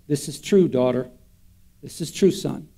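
soft, hushed, a quiet inner voice blessing the listener; gentle inner voice. Retold or imitated. Preacher voices God's Spirit speaking to daughter and son, soft and tender. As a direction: let it fall gently, like a whisper from within. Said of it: "something inside is gonna say".

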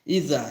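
ইজা with the final vowel held for one alif; stretched long vowel. Shown as a demonstration. Teacher showing madd to learners, ইজা with lengthened ending. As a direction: draw out the end of ইজা. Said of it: "এখানেও একাল পরিমাণ টান".

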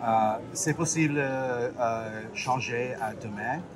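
foreign accent in French. Real, not acted. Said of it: "here goes me trying to speak French".

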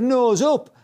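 high, loud mock instructor order; instructor's command. Instructor orders pupil to climb, retold command. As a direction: call out sharply as an imitated instructor. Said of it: "He said".

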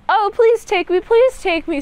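high, pleading mock-effeminate voice; hammed-up imitation of a pleading prince; begging prince. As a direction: beg to be taken along, pitched well up. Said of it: "says the prince".

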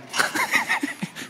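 high breathy laugh at a joke; burst of laughter. Real, not acted. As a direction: crack up laughing. Joke about grabbing nuts.

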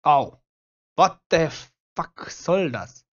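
loud startled swearing; shocked outcry. Real, not acted. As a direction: yell out in sudden shock. Killed suddenly by a zombie. (lauter erschrockener Aufschrei)

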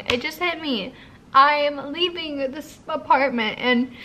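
real crying as it sinks in; sobbing. Real, not acted. Crying to viewers about leaving her apartment. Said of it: "but I am just sobbing".

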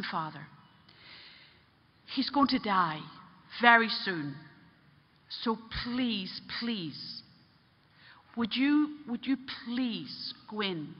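hushed, slow plea; gently imploring; pleading. Retold or imitated. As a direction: beg softly, lingering on each please. Nun pleads with the priest.

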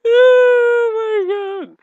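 very high, loud, drawn-out through laughter; helpless laughter. Real, not acted. Gamer cracking up at own joke, high drawn-out laughing. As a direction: stretch it out, cracking up.

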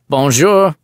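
put-on high, loud French-accented greeting. French officer calling down into the dark, thick French accent. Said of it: "The accent was thick".

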